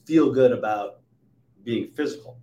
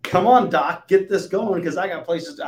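louder, higher pushy voice; mock impatient patient, louder and higher; impatient demand; 7 semitones higher, 7 dB louder than usual. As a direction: demand a quick fix from the doc.

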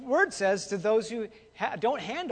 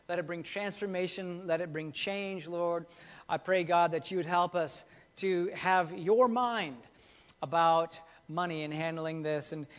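prayer; 3 semitones lower than usual. Acted. Opening prayer before sermon.

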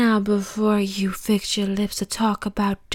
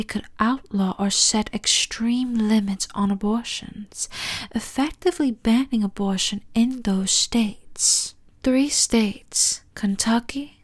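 hushed, informative whisper; whispered news read. Acted. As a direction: report the facts in a whisper. Whispered news-style reading.

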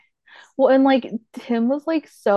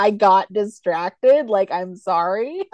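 pretending not to care; 5 dB louder, slower than usual. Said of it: "he just says it, like, nonchalant".

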